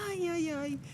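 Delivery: high whimpering child's mock sob; playful mock crying; fake crying. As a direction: wail like a little girl pretending to cry. Child in full drama on stairs.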